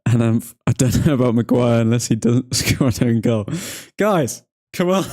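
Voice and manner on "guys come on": excited. Real, not acted. Hyping up the chat.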